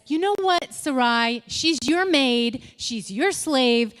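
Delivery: slow, emphatic mock exasperation; exasperated husband. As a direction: hand the problem back, word by word. Husband acted, handing problem back to wife.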